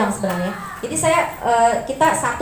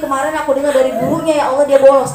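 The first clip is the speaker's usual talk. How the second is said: dry demanding prayer; 6 dB louder, faster than usual. Shown as a demonstration. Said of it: "Itu ibu kering doanya".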